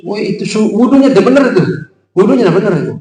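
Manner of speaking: mildly mock the rude corrector; rough scolding. Shown as a demonstration. Preacher showing a harsh man correcting wudu, mock rough scolding. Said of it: "Tapi kalau antum kasar".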